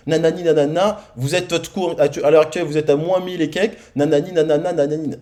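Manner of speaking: imitation légère d'une conseillère condescendante; un soupçon de ton sec et supérieur; un ton hautain. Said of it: "Et elle me parle avec un ton". (la conseillère bancaire le sermonne, ton hautain à peine imité)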